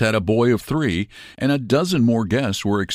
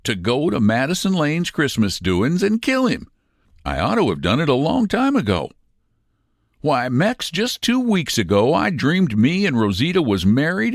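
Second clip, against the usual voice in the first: without heat; 8 semitones higher than usual. A narrator's reading. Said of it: "repeated the Frio Kid without heat".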